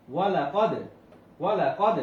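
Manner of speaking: ওয়ালা কদ with the final d bounced; qalqalah echo. Shown as a demonstration. Teacher drilling qalqalah, ওয়ালা কদ with an echoing d. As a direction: hit কদ firmly and let the d rebound. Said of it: "কলকলা করিয়ে পড়তে হবে".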